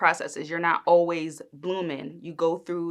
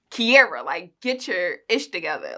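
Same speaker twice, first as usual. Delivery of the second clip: mild imitation of a straight-talking author; blunt talking-to; 4 dB louder than usual. Author telling the reader off, mildly imitated blunt talking-to. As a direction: address the listener directly, lightly scolding. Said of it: "he just talk right, like, right at you".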